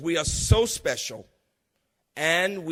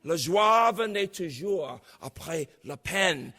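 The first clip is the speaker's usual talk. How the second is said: slow recited French; slower than usual. Shown as a demonstration. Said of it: "it was Apollinaire who said".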